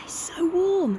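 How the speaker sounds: breathy whisper of pleasure; hushed delight. Real, not acted. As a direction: whisper it, savouring the sun. Basking in warm sun.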